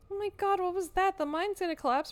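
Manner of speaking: high, loud, rushing panic; panicky. Acted. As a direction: squeal it like the roof is coming down. Mine noise spooks Stella.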